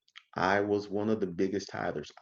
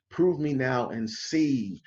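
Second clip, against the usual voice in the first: slow, drawn-out preacher's challenge; hard-pushing preacher; 2 semitones higher, much slower than usual. Retold or imitated. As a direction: mimic a preacher pushing each word hard. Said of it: "he pushed it hard".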